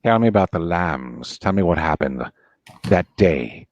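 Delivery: a low, coaxing Lecter prying for the truth; Hannibal Lecter. Acted. Playing Lecter to Clarice, low and coaxing.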